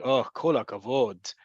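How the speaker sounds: sarcastic praise, falling on "kol hakavod". Shown as a demonstration. Teacher shows how praise can sound, sarcastic. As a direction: say "Oh, kol hakavod" as mock congratulation. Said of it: "in a certain way".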